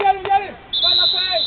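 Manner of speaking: rising coach's shout; shouting encouragement. Real, not acted. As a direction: drive them on from the touchline. Coach urging players on pitch.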